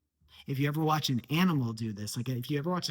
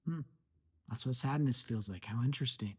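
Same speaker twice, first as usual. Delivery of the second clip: calm curious; 5 dB quieter than usual. Shown as a demonstration. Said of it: "Let's say it's sadness".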